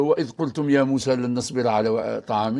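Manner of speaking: plain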